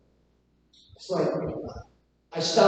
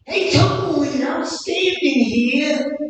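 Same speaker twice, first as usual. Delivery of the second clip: Al Pacino impression; 4 semitones higher than usual. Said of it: "Al Pacino".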